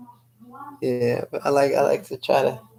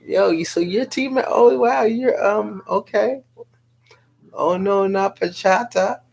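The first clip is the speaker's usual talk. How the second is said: starstruck fan; 9 semitones higher, 4 dB louder than usual. Retold or imitated. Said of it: "people could be like".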